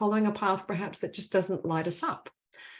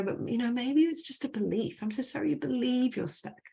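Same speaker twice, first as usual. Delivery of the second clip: gentle musing; 5 semitones higher, 3 dB quieter than usual. Retold or imitated. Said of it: "Then we can start to go".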